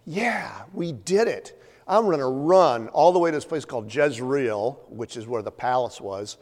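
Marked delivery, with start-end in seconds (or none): 0.1-4.8 triumphant. Retold or imitated. Elijah after the fire falls, a mild triumphant cheer. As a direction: crow over the win, pumped up. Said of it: "he's gotta be feeling it".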